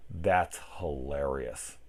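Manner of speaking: slow deadpan "That's hilarious" with no laugh. Retold or imitated. The stone-faced friend who never laughs, slow and deadpan. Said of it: "that person that's like".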